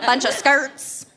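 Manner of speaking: put-on slow, sly Chicago mobster accent; old Chicago mobster accent. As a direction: drawl it like an old Chicago gangster. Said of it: "subjected to those accents".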